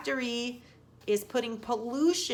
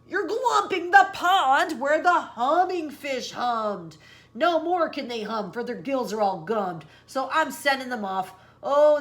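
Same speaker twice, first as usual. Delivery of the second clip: lightly voiced Lorax; 4 dB louder than usual. Lorax laments to the Onceler, mild sorrow. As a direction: lament the gummed fish. Lorax scolds about fish.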